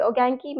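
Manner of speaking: "ओगेंकी" as o-gen-ki, short and casual with a light rise; casual Japanese. Shown as a demonstration. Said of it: "अगर आप casually पूछ रहे हो".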